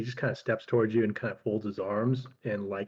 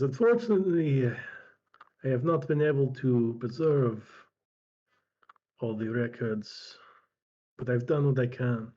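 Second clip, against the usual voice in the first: slow, regretful old scholar, lightly played; lightly voiced old healer; slower than usual. Old healer apologizes for the lost records, slow, lightly voiced. Game master voices Strabo.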